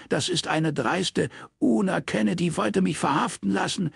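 lightly voiced father in outrage; indignant father. Father protesting to his daughter, lightly voiced indignation.

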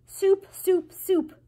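high, loud repeated outbursts; shouting. A narrator's reading. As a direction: yell each word in defiance. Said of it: "shouted the cook".

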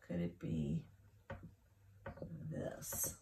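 "this" whispered like a secret. Shown as a demonstration. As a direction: whisper "this" as a teasing hint. Teasing spelling option.

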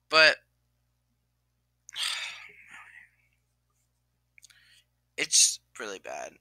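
real choked whisper, fading away; tearful whisper. Real, not acted. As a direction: barely get it out while crying. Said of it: "sorry, guys, for crying on camera".

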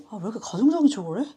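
quick mock accusation. Shown as a demonstration. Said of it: "약간 이런 느낌으로".

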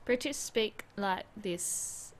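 slow flat robot voice. Shown as a demonstration. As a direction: speak like a stiff robot. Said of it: "like a robot".

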